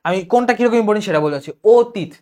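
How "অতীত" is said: অতীত begun with a closed "o": "o-tit"; o-like first vowel. Shown as a demonstration. Teacher modelling the word for students, o-like first vowel. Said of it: "অ এর উচ্চারণ ও এর মতো হবে".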